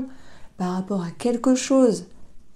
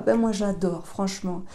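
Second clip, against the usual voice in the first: usual speaking voice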